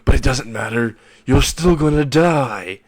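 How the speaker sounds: defiant cry, rising on the last words; mock scream. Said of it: "screaming this".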